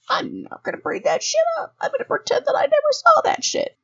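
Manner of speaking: high, conspiratorial whisper; soft, high whisper between colleagues. Retold or imitated. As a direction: hush it like a secret deal. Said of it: "I'm like".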